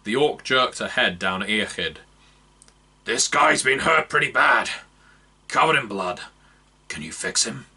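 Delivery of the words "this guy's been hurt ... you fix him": loud gruff worry fading down. Acted. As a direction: explain the injury urgently. Orc explains to elf.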